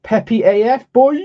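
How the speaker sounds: loud hyped bro shout; frat bro. Acted. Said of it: "talking like a fucking frat bro".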